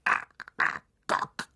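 langsamer, gedehnter Spinnenruf; rufende Spinne. Acted. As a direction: ruf den Namen langsam und gezogen. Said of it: "rief sie". (gedehnter Ruf einer Riesenspinne)

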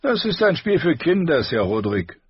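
high, haughty dismissal; loud, high-pitched princely disdain, falling at the end; bored prince. Acted. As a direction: scorn it as beneath you. Bored prince scorns the practice.

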